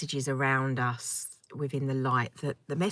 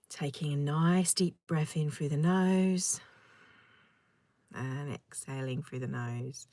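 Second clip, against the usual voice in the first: guided meditation; 5 dB quieter than usual. Acted. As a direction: breathe it out gently, letting each phrase settle. Leads a meditation.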